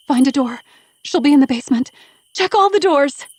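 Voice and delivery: high, pressing shout, building; urgent orders. A narrator's reading. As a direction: call out orders in a frantic search. Urgent orders during frantic search.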